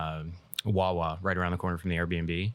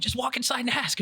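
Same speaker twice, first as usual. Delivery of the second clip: retold reply. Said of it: "I'm like".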